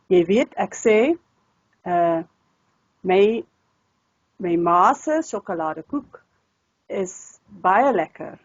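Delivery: slow, halting Tswana-flavoured Afrikaans accent. Shown as a demonstration. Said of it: "Tswana background or some will say Afrikaans a little bit more like that".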